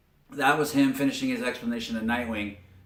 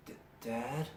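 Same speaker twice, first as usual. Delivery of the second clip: faint, halting mock-weak voice; 12 dB quieter than usual. Injured daughter weakly calling to her father, imitated. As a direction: imitate someone barely able to speak. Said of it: "you hear her weakly say".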